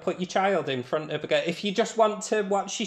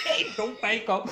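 mock cry; 7 semitones higher, 4 dB louder than usual. Mocking the film's crying boy.

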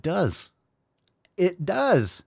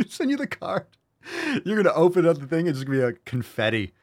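laughing mock threat; 5 semitones higher than usual.

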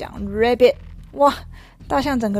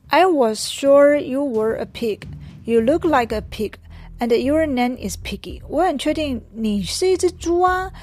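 insistent elephant; 3 semitones higher than usual. Acted. Elephant insisting to Piggy, a bit higher. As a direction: insist he was sure. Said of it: "大象就开始说".

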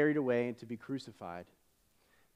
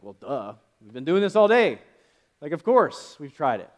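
annoyed retort; 7 dB louder than usual. Retold or imitated. Annoyed disciples answer stranger.

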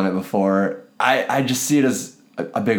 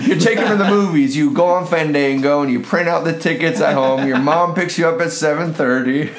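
grandpa voice; 5 semitones higher than usual. Retold or imitated. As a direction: play a preachy grandpa. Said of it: "like a fucking grandpa".

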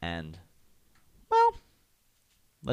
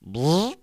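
short buzzing elevator noise, higher pitched; imitated elevator buzz; 6 semitones higher than usual. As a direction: buzz like a lift setting off.

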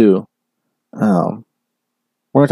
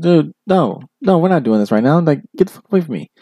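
imitating coach shutting it down; 5 semitones higher than usual. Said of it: "Coach Brown was like".

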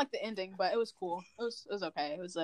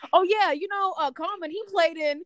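higher, chatty know-it-all voice; imitating know-it-all friend; 5 semitones higher, 4 dB louder than usual. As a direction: show off trivia playfully. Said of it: "you be like".

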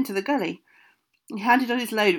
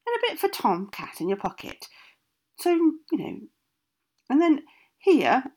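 put-on old witch voice; 2 semitones higher than usual. Witch gives instructions.

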